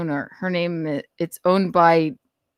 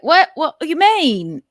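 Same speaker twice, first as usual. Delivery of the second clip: confused English staffer; 10 semitones higher, 5 dB louder than usual. Retold or imitated. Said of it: "they're gonna be like".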